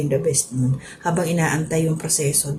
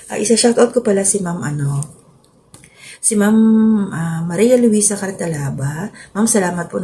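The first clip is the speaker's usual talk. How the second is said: after crying; 4 semitones higher, 5 dB louder than usual. Real, not acted. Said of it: "Sorry, naiyak ako".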